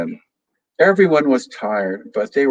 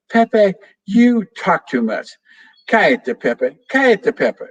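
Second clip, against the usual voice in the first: scolding the parrot; 8 semitones higher, 3 dB louder than usual. Acted. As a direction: tell the parrot off, exasperated. Annoyed little girl scolds parrot.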